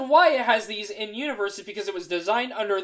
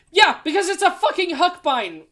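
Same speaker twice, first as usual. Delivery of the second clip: loud, higher-pitched exasperation; mad outburst; 9 semitones higher, 6 dB louder than usual. Real, not acted. Podcaster fed up with a wiki's editorial, mad outburst. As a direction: burst out, annoyed and emphatic. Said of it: "Sorry, I'm mad at the editorial".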